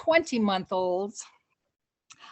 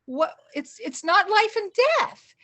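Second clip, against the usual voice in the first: talking herself down; 6 semitones higher, 5 dB louder than usual. Retold or imitated. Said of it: "And I said".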